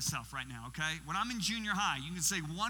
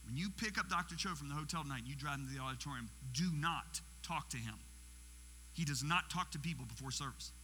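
stern instruction; 2 semitones lower than usual. Retold or imitated. Head businessman instructing the driver before service, stern and restrained. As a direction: mildly imitate a businessman laying down rules. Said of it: "he says it like this".

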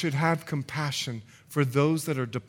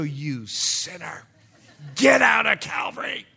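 mock outrage building to a shout; condemning pastor. Pastor throwing sinner out of church, hammed-up fury. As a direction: draw out the accusation, then shout the banishment.

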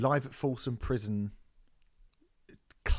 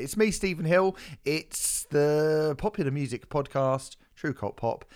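Cockney; 4 semitones higher, 4 dB louder than usual. Pretend. Keeps the put-on Cockney intro.

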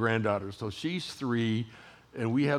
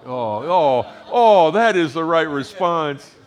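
delighted; 5 semitones higher, 10 dB louder, slower than usual. Real, not acted. Reacting to granddaughter's slide.

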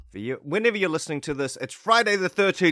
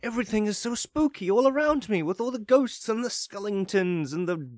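high eager listener voice; imitated listener; 6 semitones higher than usual. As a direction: voice a giddy fan, pitched up. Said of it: "what you might be thinking".

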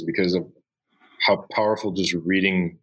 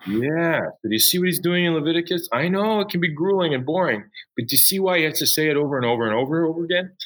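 excited teacher; 10 semitones higher than usual. Retold or imitated. Teacher replays his own excited reply.

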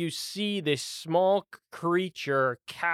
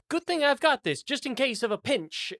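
lightly higher archer voice; a quick pleased aside, pitched up; Drexel's voice; 9 semitones higher than usual. Acted. GM voicing Drexel as she readies her bow, lightly higher.

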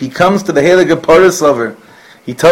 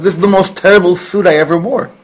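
a fairly loud, higher mock yell at the tailor; retold yell; 5 semitones higher, 4 dB louder than usual. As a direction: play the angry nobleman yelling, but only half in earnest. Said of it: "he yells at him".

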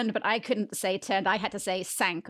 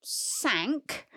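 dramatic whisper; 4 semitones higher, much slower than usual. Pretend. Dramatic story turn.

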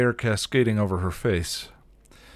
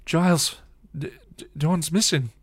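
high, tense announcement; tense and urgent; terse; 10 semitones higher, 5 dB louder than usual. A narrator's reading. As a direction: force the news out, stumbling. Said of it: "Buffy said tersely".

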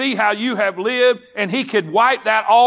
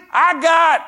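high, raised herald's call; excited announcement; 6 semitones higher, 3 dB louder than usual. Acted. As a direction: call it out, pitched well up. Herald's shout before the drop.

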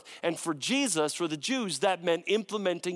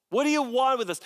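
raised demon challenge; 7 semitones higher, 4 dB louder, faster than usual. Acted. Demons confronting Jesus.

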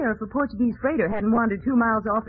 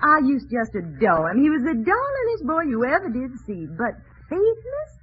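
Southern visitor; 4 semitones higher than usual. Pretend. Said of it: "I'll be a visitor from the South".

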